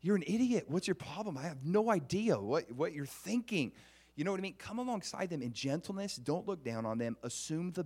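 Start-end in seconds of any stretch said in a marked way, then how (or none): 0.0-3.7 arrogant superior. Retold or imitated. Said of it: "arrogant, superior attitude like".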